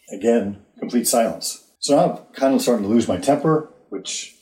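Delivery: usual speaking voice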